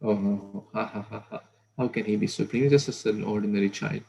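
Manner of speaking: laughing through the words, a touch mocking; light mock laughter at a silly claim; laughing quote. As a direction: laugh off the idea of a supreme child. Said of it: "everyone had a big laughter".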